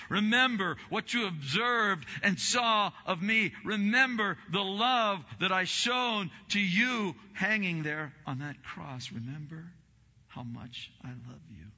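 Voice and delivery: fervent shouted plea; impassioned Jesus. Acted. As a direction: call out to them as Jesus from the cross. Voicing Jesus at communion.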